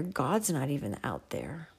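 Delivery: hushed whisper. Pretend. Voicing a lonely doubt.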